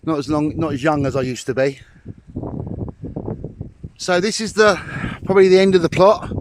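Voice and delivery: panting a little after the climb; out of breath. Real, not acted. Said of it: "sorry if I'm a little bit out of breath".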